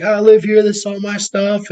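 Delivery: high, mock-outraged woman; retold freaking out. Imitating the evicted lady protesting to the crew, high mock freak-out. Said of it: "freaking out".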